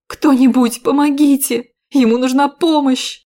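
high loud desperate cry; loud desperate call; screaming for help. Acted. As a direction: shout for help for the wounded man. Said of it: "кричала я".

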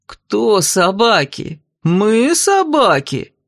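slow, heavy, rising outrage; roaring offence. A narrator's reading. Amazon Rissa roaring at the heroine, offended. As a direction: roar it out, offended. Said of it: "взревела Рисса".

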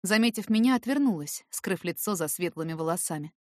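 plain reading voice

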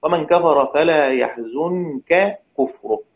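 slow recitation of يحزنك كفره; slow tajwid reading; verse recitation. Shown as a demonstration. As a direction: recite the verse slowly for the class. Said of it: "ما هي هذه الكلمة".

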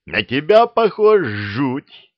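put-on high, slow, childlike monster voice; dragon head. A narrator's reading. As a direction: drag it out like a silly beast.

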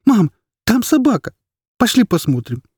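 put-on boy begging his mother to see the dog; pleading child. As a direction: beg like a small boy.

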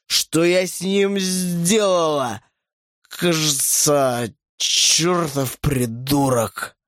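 put-on very slow, slurred drunk curse; drunk slurring. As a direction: drag it out, barely standing. Drunk woman waking.

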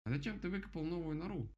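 high, cross little bird voice; angry woodpecker. Acted. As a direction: snap at him like a grumpy woodpecker. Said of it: "сердито спросил его дятел".

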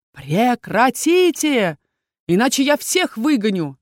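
sharp, slowed stop-it shout; stern command. Acted. Целитель обрывает ссору парней, строго и громко. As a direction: halt the quarrel at once. Healer stops quarrel in ward.

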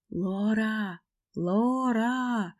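high desperate calls from afar; calling out. Acted. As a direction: call her name, searching. Evan calling out for her.

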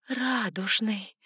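rising to loud joyful insistence; excited realization. A narrator's reading. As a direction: cry out the discovery. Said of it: "Гулко перекатывалась мысль".

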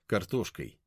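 plain reading voice

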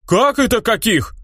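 high, slow outraged question; indignant villagers. Acted. Villagers indignant at the hero, slow high outcry. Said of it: "дружно возмутились жители".

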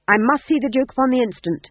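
high, loud urgent shout. A narrator's reading. Guard shouting at the porter to be let in, loud. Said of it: "shouted the guard".

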